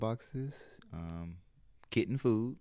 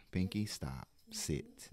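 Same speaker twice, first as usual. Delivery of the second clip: calm command to a pet; firm but composed, in short words; much slower than usual. Shown as a demonstration. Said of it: "gotta take a deep breath".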